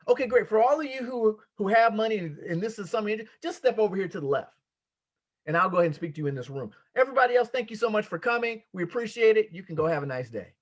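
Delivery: host dismissing. Pretend. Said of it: "treat this like you have a multi-million dollar real estate project".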